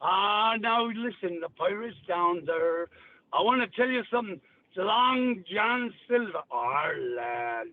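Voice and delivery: low Long John Silver burr from Cornwall; Cornish pirate accent. Shown as a demonstration. Asked to do Cornwall, deep Cornish pirate accent. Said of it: "That's fucking Cornwall".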